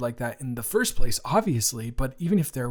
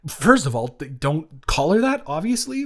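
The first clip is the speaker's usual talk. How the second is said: louder, sharp telling-off; angry phone retort; 4 semitones higher, 6 dB louder than usual. Real, not acted. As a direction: cut him off firmly. Phone argument with cheater.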